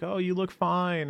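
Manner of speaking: high, sing-song brush-off; offhand reassurance. Retold or imitated. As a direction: toss it off like an empty comfort. Mocking a dismissive reassurance.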